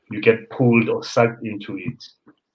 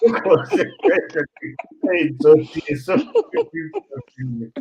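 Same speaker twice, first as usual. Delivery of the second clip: put-on very high, slow cooing over a child; squeaky mock baby-talk; gushing greeter; 7 semitones higher, 4 dB louder than usual. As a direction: coo like a stranger fussing over a toddler. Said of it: "so he's like".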